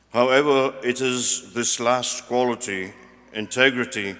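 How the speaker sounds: projected ceremonial delivery in deliberate phrases; formal podium reading; formal speech. Real, not acted. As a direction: read a prepared address to graduates. Reads out prepared commencement address.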